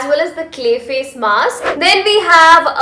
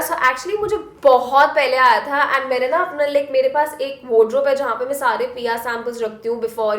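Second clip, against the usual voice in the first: Hindi-English code-switching; switching languages midsentence; much faster than usual. Real, not acted. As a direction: swap between English and Hindi mid-line.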